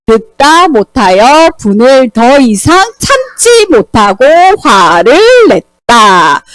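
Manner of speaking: very slow, deliberate reading aloud; slow scripture reading. Acted. Teacher reads the Bible verse aloud slowly to the children. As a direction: read each phrase out slowly for young listeners.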